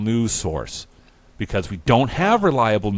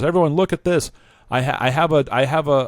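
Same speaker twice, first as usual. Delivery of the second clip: high, loud call to a crowd; 6 semitones higher, 4 dB louder, faster than usual. Acted. Charles addressing a protest crowd, calling out. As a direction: call everyone over, stumbling over the words.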